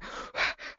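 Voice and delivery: acted panicky puff of breath; demonstrated hyperventilation breath; hyperventilating breath. Acting out a hyperventilating patient.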